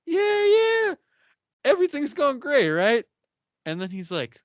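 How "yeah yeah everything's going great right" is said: high, loud, swaggering boast; cocky. Retold or imitated. Charles boasting to the cast, high loud cocky. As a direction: brag like you own the room. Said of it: "Charles is feeling a little cocky".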